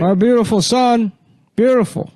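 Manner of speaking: put-on high, breathy old-man "beautiful son"; Biden voice. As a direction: coo it like an old president. Keeps the Biden voice.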